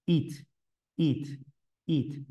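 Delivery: "It" short and crisp, a clipped "it"; the -ed ending spoken as a short "It"; it sound. Shown as a demonstration. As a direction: drill the ending "It" three times, crisp. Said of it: "su pronunciación literal".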